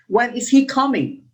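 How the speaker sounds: "When is he coming" with the voice falling on "coming"; "When is he coming" as a falling question; falling intonation. Shown as a demonstration. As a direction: ask "When is he coming", dropping at the end. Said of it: "So falling intonation".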